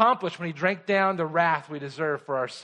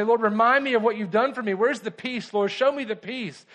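higher-pitched, urgent appeal to the Lord; pleading prayer; 5 semitones higher than usual. Acted. Believer asking the Lord for peace, pleading. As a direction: plead upward, pressing each request. Preacher voices his plea to God.

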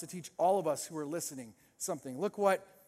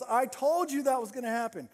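raised mock exclamation; told-you-so; 5 semitones higher than usual. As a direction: crow it like a vindicated onlooker. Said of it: "everybody goes".

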